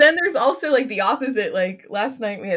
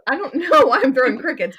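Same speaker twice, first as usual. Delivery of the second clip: laughing; 4 semitones higher, 7 dB louder than usual. Real, not acted. Laughing at her own mixup.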